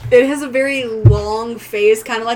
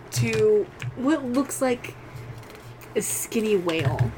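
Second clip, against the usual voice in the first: slow build with long pauses between phrases; game master's suspense narration; 7 dB quieter than usual. A narrator's reading. Game master revealing a monster to player, halting suspenseful narration. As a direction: draw out the eerie reveal piece by piece.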